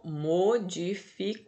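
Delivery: "modificou" slowly broken into mo-di-fi-cou; syllable by syllable. Shown as a demonstration. Teacher showing the changed word, slow, syllable-by-syllable "modificou".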